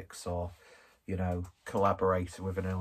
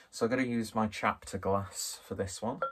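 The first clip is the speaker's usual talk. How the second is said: breathless from climbing stairs; a bit winded, catching breath. Real, not acted. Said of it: "I am out of breath 'cause I, uh, I walked up the stairs".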